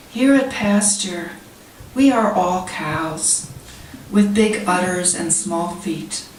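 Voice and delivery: measured poetry recital, pausing between lines; poem reading. Real, not acted. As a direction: read it as verse, phrases falling at the ends. Reads own poem to audience.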